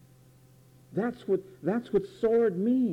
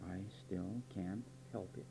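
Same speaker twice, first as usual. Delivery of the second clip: very soft, low mimicked excuse; feeble mock excuse; 9 semitones lower, 18 dB quieter than usual. Preacher imitating a listener's excuse, hushed and feeble. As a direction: let it out small and low, as a helpless excuse.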